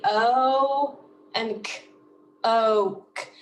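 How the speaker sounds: O held long, then a separate crisp K in "oak"; sounded out. Shown as a demonstration. Teacher separating two sounds for students, "oak" drawn out. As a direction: stretch the vowel of "oak" before the K. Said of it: "I hear two sounds".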